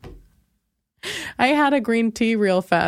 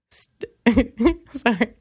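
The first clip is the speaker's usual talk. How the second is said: ordinary delivery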